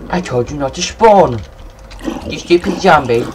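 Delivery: loud scolding of a zombie; angry yell. Real, not acted. Gamer yelling at a zombie that spawned. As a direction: tell the zombie off sharply.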